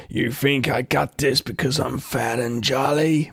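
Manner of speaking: slow, deliberate imitation of an affronted Santa; mock menacing Santa; Mel. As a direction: draw the question out word by word. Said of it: "and Mel says to him".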